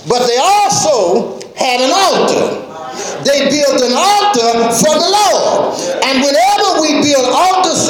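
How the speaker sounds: rising, shouted preacher's cadence; preaching at full force. Acted. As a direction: preach it hard to the church. Preaching the altar call.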